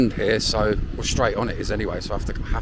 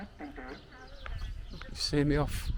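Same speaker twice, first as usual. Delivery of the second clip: quoting Tam; 6 semitones higher, 11 dB quieter, much slower than usual. Retold or imitated. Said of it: "like Tam said".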